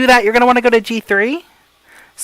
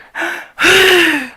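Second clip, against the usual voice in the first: a loose sigh that falls away; dropping sigh; 6 semitones higher than usual. Shown as a demonstration. Coach showing the wrong way to exhale, falling sigh. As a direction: let the breath collapse in one sigh. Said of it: "don't just go".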